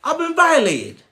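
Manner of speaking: high, hammed-up wounded whimper; voice of anger. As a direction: play your hurt anger as a mock crying child. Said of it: "it tells you".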